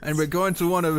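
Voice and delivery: put-on muddled German accent sliding into French; accent turning French. Podcaster failing at a Nazi voice, accent drifting into French. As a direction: let a bad German accent wander into French. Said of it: "French now".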